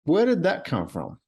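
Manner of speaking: high, slow disbelieving cry; shocked. Retold or imitated. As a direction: say it like you just caught yourself off guard. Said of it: "I started getting tears in my eyes".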